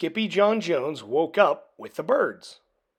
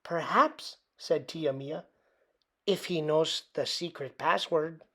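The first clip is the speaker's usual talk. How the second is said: soft voice; 6 dB quieter than usual. A narrator's reading. Tia Mia speaks.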